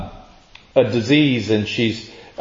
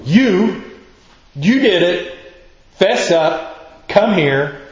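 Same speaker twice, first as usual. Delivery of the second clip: mock harsh; 3 semitones higher, slower than usual. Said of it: "It sounds harsh to begin with".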